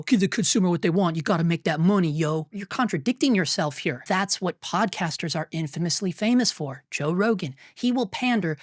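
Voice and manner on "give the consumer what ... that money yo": mocking quote. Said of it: "turn around and go".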